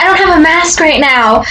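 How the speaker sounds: high mock-panicked neighbor voice; imitated freaking out. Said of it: "she's, like, freaking out".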